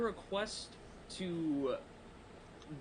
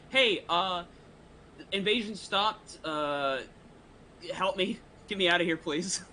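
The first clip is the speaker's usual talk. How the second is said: silent prayer; 2 semitones higher than usual. Acted. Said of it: "I'll try to pray in my mind".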